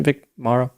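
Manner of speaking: MORROW said MAH-roh, open first syllable; "Morrow" as MAH-roh, weight up front; alternate pronunciation. Shown as a demonstration. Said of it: "like, Russian or something".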